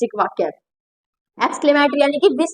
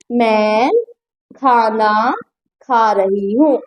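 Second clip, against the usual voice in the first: lower, with long pauses between the words; slow word-by-word dictation; 6 semitones lower, much slower than usual. Shown as a demonstration. Teacher dictating to students, slow and spaced. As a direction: spell it out slowly for the class. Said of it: "slow spaced dictation".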